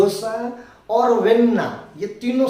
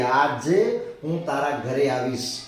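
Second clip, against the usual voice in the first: slow dictation; 4 semitones lower than usual. Shown as a demonstration. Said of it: "Gujarati में हम जब sentence बोलते हैं".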